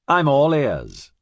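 slow, tinny captain voice; drawn-out words through a metallic speaker. Acted. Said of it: "in his tinny voice".

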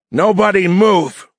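loud, high-pitched commanding shout. A narrator's reading. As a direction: shout the order out slow and high, freezing the room. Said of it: "The shout rang out".

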